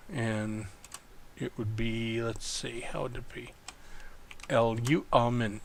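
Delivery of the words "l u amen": L U amen said syllable by syllable; broken into syllables. Shown as a demonstration. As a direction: sound out L U amen in its separate parts. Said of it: "that's how we would break apart the word".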